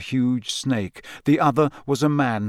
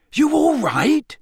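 high, worried question; alarmed concern; 4 dB louder, slower than usual. Acted. Ron kneeling beside Harry, alarmed question. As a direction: ask anxiously, pitch shooting up.

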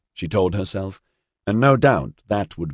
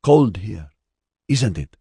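cheery small talk, a little raised; cheerful; 3 semitones higher, slower than usual. A narrator's reading. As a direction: chat cheerfully with the boy. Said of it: "she said cheerfully to Orion".

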